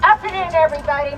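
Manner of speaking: close on mic. Real, not acted. Veteran restarting her greeting after mic help, close on mic. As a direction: greet the crowd right up on the mic. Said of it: "Get close to it. Hold the trigger down".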